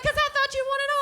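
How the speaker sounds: very high-pitched mock retort; defensive mom. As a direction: imitate a defensive mother, voice way up. Mother defends herself in acted quarrel.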